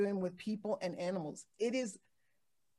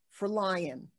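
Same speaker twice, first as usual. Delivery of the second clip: usual speaking voice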